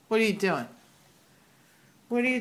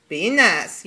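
louder, firmer repeat of the warning; louder second warning to the pet; 6 dB louder than usual. Real, not acted. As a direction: say it again and mean it.

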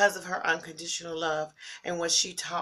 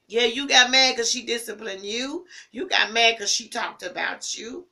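fervent preaching; 5 semitones higher, 8 dB louder than usual. Real, not acted. Preaching to grieving listeners.

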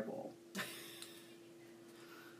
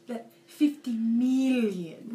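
slow, drawn-out mock villain; half-hearted film villain voice; Austin Powers villain impression; much slower than usual. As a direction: stretch out "million" like a movie villain. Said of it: "Austin Powers?".

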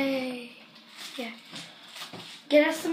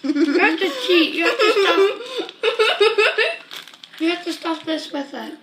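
laughing. Real, not acted. Laughing while stuffed.

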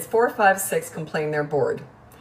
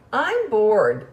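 imitating a whiny, snotty kid; mock snotty complaint, pitched up at the start; 3 semitones higher, 4 dB louder than usual. Young son whining to mom after a friend's house, snotty. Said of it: "in that snotty tone".

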